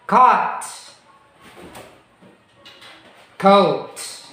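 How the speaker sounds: each word "walk", "woke", "not", "note" said alone and clearly, with a long pause after each; careful minimal pair drill. Shown as a demonstration. Teacher modelling minimal pairs for the class to repeat, carefully. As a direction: model "chop" against "choke" and "clock" against "cloak", one word at a time. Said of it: "repeat after me".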